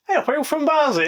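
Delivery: high-pitched calling out to a stranger; acted friendly hail. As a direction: hail someone you've just recognised. Retold stranger hailing fellow locals.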